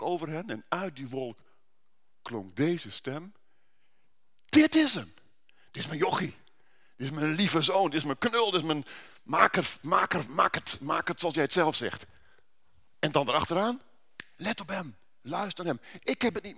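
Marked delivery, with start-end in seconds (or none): 4.4-5.1 booming, high voice from the cloud; voice of God. Acted. God speaking from the cloud, booming. 5.7-12.1 lightly voiced proud father, a touch louder; proud heavenly father. God presenting his son to the disciples, proud.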